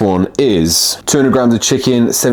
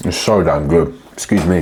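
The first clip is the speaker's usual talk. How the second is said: talking with a mouthful; words round a bite of kiwi; mouth full. Real, not acted. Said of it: "talking my mouth full".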